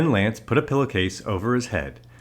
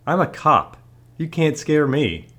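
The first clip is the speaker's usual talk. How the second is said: higher, louder, confident declaration; boastful cop; 7 semitones higher, 4 dB louder than usual. A narrator's reading. Policeman challenges Lance to show his face, boastful. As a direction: puff yourself up as an unscareable officer.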